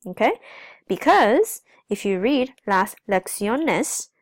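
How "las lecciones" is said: "lecciones" slowly, leaning on the ción part; deliberate, teacherly stress inside "lecciones"; stress shown. Shown as a demonstration. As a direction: stretch "lecciones" out to show where the stress lands. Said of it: "the accent is now on".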